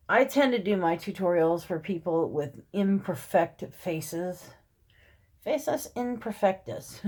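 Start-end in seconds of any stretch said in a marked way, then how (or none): 5.4-7.0 slow, put-on learned pronouncement; mock important. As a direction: pretend to sound smart with fake Latin. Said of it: "I try to sound important or smart".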